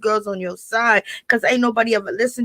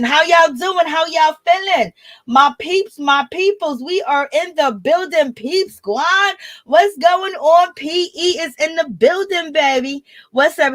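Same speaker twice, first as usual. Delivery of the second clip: hype greeting; 6 semitones higher than usual. Real, not acted. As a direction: pump up the chat as they arrive. Hype greeting to live viewers.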